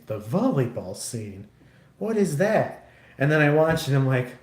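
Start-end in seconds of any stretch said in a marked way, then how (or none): 0.1-2.9 puzzled echo. Retold or imitated. Son echoing mom's volleyball scene line in confusion. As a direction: repeat volleyball scene back, baffled.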